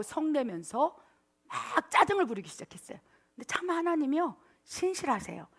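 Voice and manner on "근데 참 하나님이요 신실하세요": ordinary talk, nothing marked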